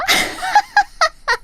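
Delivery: a long, high, falling sneering cackle; mocking laugh. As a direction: laugh in her face after the insult. 아빠 얘기로 비웃는 동창. (길게 비웃는 웃음)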